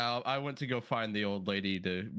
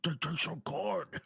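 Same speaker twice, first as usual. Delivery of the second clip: high, drawn-out squeaky plea to the group; character voice; 9 semitones higher, slower than usual. Acted. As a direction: pitch it high and stretch the words. Player in character praises croissants.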